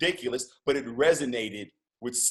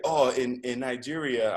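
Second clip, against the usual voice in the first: amateur attempt at a Nigerian accent; bad Nigerian accent; 4 dB louder than usual. Retelling an Uber driver's answer, rough Nigerian accent. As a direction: lightly imitate a Nigerian accent. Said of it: "I'm doing a horrible Nigerian accent".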